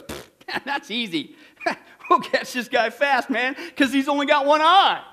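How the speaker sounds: mock-cocky, chuckling dismissal; cocky trainee. Cocky first trainee answering the policeman's test, scoffing.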